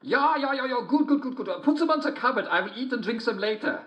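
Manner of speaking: very high sing-song falsetto as the wolf; a wolf pretending to be sweet, sung up high; wolf in disguise. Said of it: "said the wolf".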